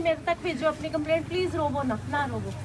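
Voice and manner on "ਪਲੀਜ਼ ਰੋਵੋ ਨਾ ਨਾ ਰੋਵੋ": soft plea, sinking lower; gentle consoling. Real, not acted. Official asking a weeping mother not to cry, consoling. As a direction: hush her tenderly.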